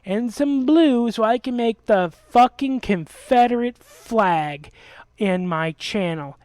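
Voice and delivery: slow, loud demanding imitation of the friend; demanding mock. Mocking a friend demanding dye for a flag, slow and loud. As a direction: spell out his brash request. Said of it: "suddenly he goes".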